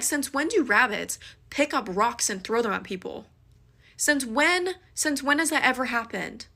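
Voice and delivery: retelling how she snapped at him; losing it. Retold or imitated. Yelling at her friend about the thrown rock. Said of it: "I legitimately lost my mind on him".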